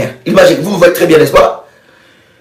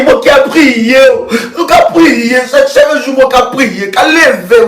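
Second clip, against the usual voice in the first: rising, higher aggrieved whine; mock indignant victim; 3 semitones higher than usual. Preacher mocks a believer blaming sorcerers, higher and indignant. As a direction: play the wounded prayer warrior. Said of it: "ton propre sorcier".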